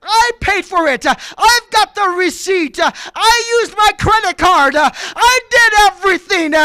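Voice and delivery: mad, aggravated. Retold or imitated. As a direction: argue back, fed up and insistent. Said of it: "He's mad".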